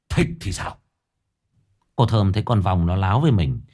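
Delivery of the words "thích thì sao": curt insolent reply. A narrator's reading. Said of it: "đáp cụt lủn".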